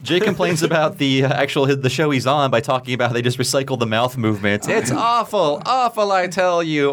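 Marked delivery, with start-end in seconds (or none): 4.7-6.9 Jay's dramatic complaint. Retold or imitated.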